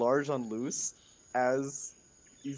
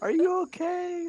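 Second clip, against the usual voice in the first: laughing; 6 dB louder than usual. Acted. Mock concern, laughing.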